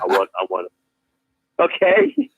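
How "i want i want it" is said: much lower, soft mock customer. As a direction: grumble it low and quiet. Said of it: "customer replying to teller".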